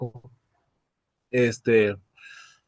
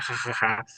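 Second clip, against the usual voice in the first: mock "ha ha ha", softer; imitated gloating laugh; 2 semitones lower, 5 dB quieter than usual. Son retelling his father's laugh after selling, imitated laughter. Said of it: "cuando vendía la cosa decía".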